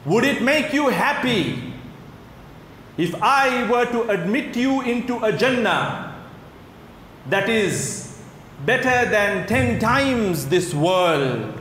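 high, slow, drawn-out grand offer; preacher voicing God's generous question; fervent preaching. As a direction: stretch out each phrase of a wondrous offer.

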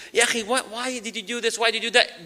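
mild play-acted scolding of a brother; mock anger. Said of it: "let's say we get really angry".

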